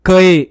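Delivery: कए said as kai, with the vowel stressed; syllable demo. Shown as a demonstration. Teacher demonstrates kai to pupils. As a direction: sound out कए as kai. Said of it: "तो उच्चारण होगा".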